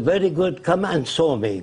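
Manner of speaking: lightly imitated Arab-accented English. Arab leader inviting the caller over, in an Arab accent. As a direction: retell it in a mild Arab accent. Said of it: "He said in his accent".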